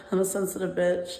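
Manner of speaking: said through a real laugh; chuckling at her own words. Real, not acted. Calling herself a sensitive bitch, laughing. Admits being emotional, then laughs.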